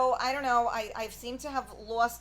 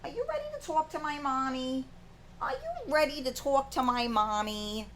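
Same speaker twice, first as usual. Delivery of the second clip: higher playful voice for a pet; voicing the pet; 5 semitones higher than usual. Owner speaking as the pet to viewers, high playful voice.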